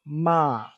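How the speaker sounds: "Ma" drawn out on a level pitch; steady mid-pitched "Ma"; flat mid tone. Shown as a demonstration. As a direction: keep "Ma" long and unmoving. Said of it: "like, flat".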